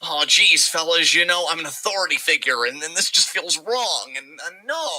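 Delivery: hesitant, mildly indignant protest; mock indignant. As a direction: imitate a flustered authority figure objecting. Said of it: "he still seems a bit indignant".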